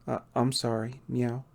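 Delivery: a touch of a soft, sorry whimper; quietly whimpering an apology; mild whimper. Acted. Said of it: "He whimpered".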